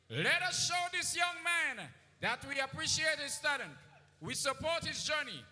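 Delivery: booming pumped announcer. Acted. MC hyping the crowd.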